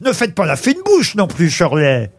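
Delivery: ordinary talk, nothing marked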